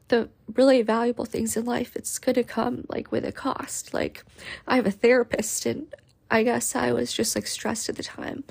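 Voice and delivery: holding back tears while speaking; tearful. Real, not acted. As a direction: voice close to tears. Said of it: "before I cried a river of emotion".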